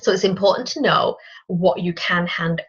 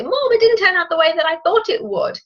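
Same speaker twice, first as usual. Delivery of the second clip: whiny complaint; 11 semitones higher than usual. Retold or imitated. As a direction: whine it like a disappointed daughter. Complaining to mom about recipe.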